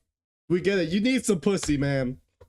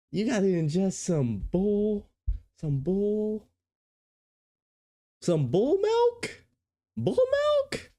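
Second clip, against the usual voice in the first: disbelief. Real, not acted. Incredulous repeat of bull milk.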